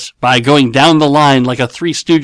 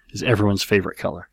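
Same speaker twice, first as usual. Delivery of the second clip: whisper; 5 semitones lower, 7 dB quieter, faster than usual. Real, not acted. Joking aside about flesh crayon.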